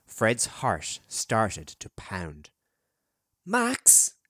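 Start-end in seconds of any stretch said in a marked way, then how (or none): 3.4-4.1 put-on higher, louder call for the missing boy. A narrator's reading. Fred calls for the missing boy, louder. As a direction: raise the call, more urgent now. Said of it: "he called louder".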